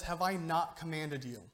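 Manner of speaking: pointed sarcastic question, leaning on "I"; lightly mock-incredulous divine sarcasm. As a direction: ask it as if they obviously should know already. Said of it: "this is some God-level sarcasm".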